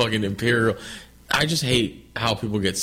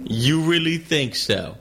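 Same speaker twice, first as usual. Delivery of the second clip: put-on horrible British accent; 4 semitones higher, slower than usual. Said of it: "horrible British accent".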